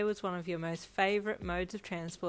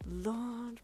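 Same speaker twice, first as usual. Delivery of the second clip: gasped; 5 semitones higher than usual. Acted. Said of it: "Brian gasped".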